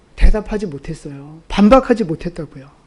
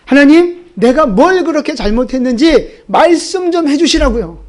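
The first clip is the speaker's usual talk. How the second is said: demanding protest; 5 semitones higher than usual. Retold or imitated. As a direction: call out to God, demanding an answer. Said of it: "하나님 앞에 따져요". (욥이 하나님께 따지듯 큰 소리로 항의하며)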